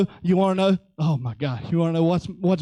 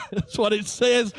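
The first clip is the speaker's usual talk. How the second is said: laughing; 3 semitones lower than usual. Real, not acted.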